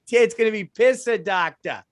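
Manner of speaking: bad Boston accent, Pissa Doctor. Shown as a demonstration. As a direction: try a Boston 'Pissa Doctor'. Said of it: "Say, say it's D A W".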